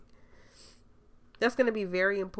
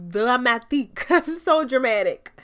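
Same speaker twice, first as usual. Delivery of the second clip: laughing at herself; 4 semitones higher, 9 dB louder than usual. Real, not acted. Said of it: "now I'm dragging me".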